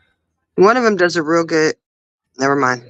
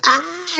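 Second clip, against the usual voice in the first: retold startled cry; 11 semitones higher than usual. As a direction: imitate a startled squeal, held back. Retold startled cry before running inside.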